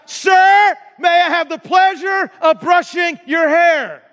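high, loud shout to be heard; acted-out shout to someone hard of hearing. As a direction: shout the polite request across a room. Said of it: "And so she shouted out".

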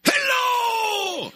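huge, very high shouted hello; booming Sabri greeting. Retold or imitated. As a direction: bellow hello across the shop with delight. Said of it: "let me do Savory".

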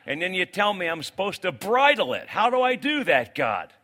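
pleading, rising to a loud high protest; exasperated complaint to God. Retold or imitated. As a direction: voice a frustrated believer arguing with God. Preacher voices frustrated believer to God.

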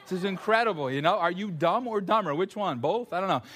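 half-laughing jab at the coach; mock praise, laughing at the coach; laughing mock tease. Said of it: "resisting the urge to say to him".

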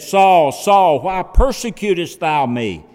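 loud, commanding voice of God; God's voice calling out to Saul; booming call from heaven. Acted. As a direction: call his name down from heaven.

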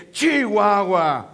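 slow, irritated Chihuahua; angry exclamation. Shown as a demonstration. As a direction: say Chihuahua like you are fed up. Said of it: "When you are angry, you can say".

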